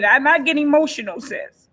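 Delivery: holding back tears while urging self-care; tearful. Real, not acted. Tearful, speaking to her listeners about self-care. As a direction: voice thick with real tears, pushing through. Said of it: "I'm shedding tears right now".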